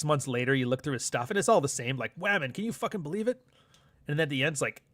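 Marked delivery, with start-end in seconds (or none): 2.2-3.4 higher-pitched imitation of an amazed vlogger; mock amazement. Commentator mimicking a creator's videos, mock amazed. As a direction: play up the fake astonishment lightly.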